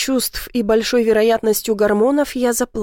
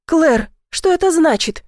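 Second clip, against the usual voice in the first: hysterical cry; 7 semitones higher than usual. A narrator's reading. Ivy to Claire over a positive test, hysterical yelling. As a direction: shriek the question in panic. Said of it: "истерично завопила я".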